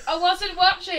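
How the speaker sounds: high laughing whine; laughing protest. Pretend. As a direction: complain while giggling. Pretend latecomer complaint.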